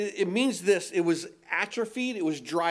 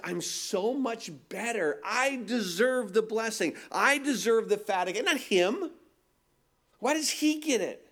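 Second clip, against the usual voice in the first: self-righteous whine; 4 semitones higher than usual. Retold or imitated. Older brother's self-righteous complaint.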